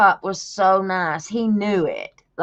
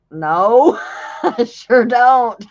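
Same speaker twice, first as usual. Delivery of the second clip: laughing denial; 2 semitones higher, 7 dB louder, slower than usual. Retold or imitated. Cop asks about the complaint.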